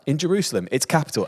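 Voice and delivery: high, loud reveal; dramatic reveal. Retold or imitated. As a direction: announce it with drama. Voiced answer, dramatic reveal.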